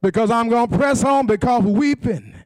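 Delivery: chanted, shouted whooping sermon; preaching at full force. Acted. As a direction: ride the rhythm of a whooping preacher.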